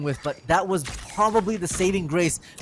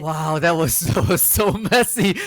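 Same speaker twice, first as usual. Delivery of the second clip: laughing; 3 dB louder, slower than usual. Real, not acted. Reaction laugh after round.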